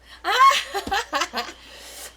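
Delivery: bright high burst of laughter; real high-pitched laugh. Real, not acted. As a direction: laugh out loud, delighted. Laughing at the card.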